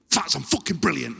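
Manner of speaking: mock-aggressive eager reply; aggressive keenness. Keen player answering his coach, aggressively. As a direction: fire back, overly keen. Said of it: "'Cause he's so aggressive".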